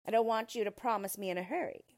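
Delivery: loud, fast dwarf voice; toying dwarf. A narrator's reading. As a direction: rattle it off, toying with your victim. Dwarf toys with princess.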